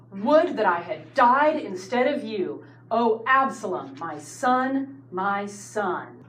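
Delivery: loud cry of grief on Oh, then broken mourning; grieving lament. Retold or imitated. David in his tent grieving for Absalom, anguished lament. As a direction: mourn the lost son aloud. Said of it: "he utters a heart-wrenching wail".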